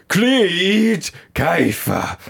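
high, very slow, drawn-out ghostly name; spooky possessed voice. Retold or imitated. Telling friends how the psychic faked a possession, high and very slow ghostly voice. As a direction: stretch the name out like a spirit speaking through him. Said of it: "like that".

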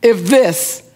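mock-momentous announcement with long pauses; retold revelation. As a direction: build word by word, pausing, to a big punchline. Friend's big revelation retold.

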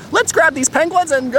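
rallying shout. Pretend. Escaping the burning boat.

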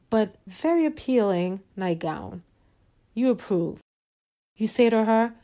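soft, measured storyteller voice; storytelling narration. A narrator's reading. Narrator leading listeners into a fantasy evening, soft storytelling. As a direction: lay out the scene gently and evenly.

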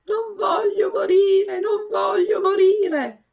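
high, slow, wailing cry of a puppet begging for his life; screaming in terror. A narrator's reading. Pinocchio screams to the puppeteer, terrified and crying. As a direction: scream it out, sobbing with fear.

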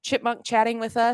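high squeaky helium voice; sped-up chipmunk chatter. Real, not acted. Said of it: "I do sound like the idiot chipmunk".

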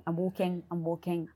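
ordinary talk

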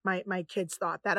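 low, soft apologetic murmur; retold apology. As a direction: imitate a sheepish, quiet apology. Acting out an embarrassed apology.

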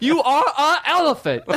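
high, giggling silly insult; laughing insult. Pretend.

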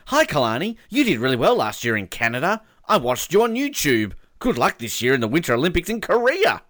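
lifted, emphatic message read-out; reading fan message. Acted. Radio host reading a family's message to an athlete, emphatic. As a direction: read it out with a big bouncy lilt.

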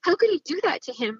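indignant, pitch lifted on each accusation; pointed reproach. Retold or imitated. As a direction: replay pleading outrage meant to be overheard. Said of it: "I'm saying this on purpose so that Gary can hear this".

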